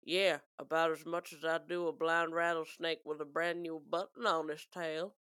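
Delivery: lightly voiced Western film man; stinging insult. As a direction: deliver a mock cowboy put-down. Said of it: "He says, and this is a stinging, stinging insult".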